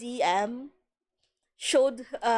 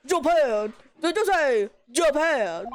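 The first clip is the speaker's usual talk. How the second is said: the governor a little louder, startled; lightly voiced governor caught off guard; 3 semitones higher, 5 dB louder, slower than usual. Governor reacts to Japan.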